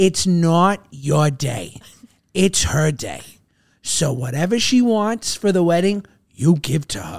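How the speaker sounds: put-on thick Boston accent. Retelling wedding advice from a big brother: imitating Dan's thick Boston accent. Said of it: "Dan has a great, thick Boston accent".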